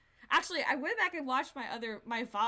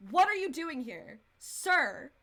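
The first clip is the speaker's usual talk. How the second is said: exasperated scolding; 4 dB louder than usual. Real, not acted. Outraged at sick character turning up.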